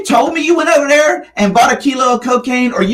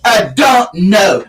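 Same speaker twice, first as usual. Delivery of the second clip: mocking sulky reply; much slower than usual. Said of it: "don't raise your fucking lip to me and go".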